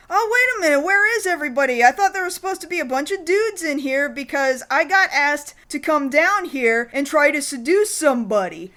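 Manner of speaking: put-on high, puzzled girlish voice; puzzled woman. Woman arriving at empty bar, high puzzled voice. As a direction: ask it like a confused newcomer. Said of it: "she's like".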